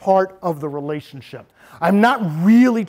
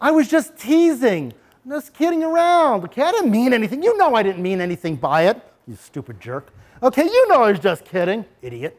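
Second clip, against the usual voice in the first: pitched-up false apology with dropped insults; fake apology; 3 semitones higher than usual. Bully faking an apology to the kid he insulted, sneering. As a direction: pretend to be sorry, then slip in the jab. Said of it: "You hear this all the time".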